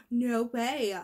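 gasp of surprise. Shown as a demonstration. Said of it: "kinda like that".

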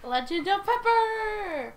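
epic trailer voice. Pretend. Mock epic title.

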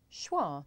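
schwa said slowly and clearly, shwah with a falling tune; saying schwa. Shown as a demonstration. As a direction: model the word Schwa for learners. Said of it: "It's actually called schwa".

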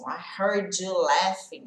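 "I heard you laughing" slow, with "heard you" joined; linked sounds. Shown as a demonstration. Teacher reads the lyric slowly to show the linking. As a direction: blend the d into the y, slowly. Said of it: "Que ele junta o D com o Y".

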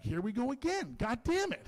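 fed-up comic outburst, not shouted; exasperated. Acted. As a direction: complain in disbelief, pitch rising. Acts out exasperated reaction to wife.

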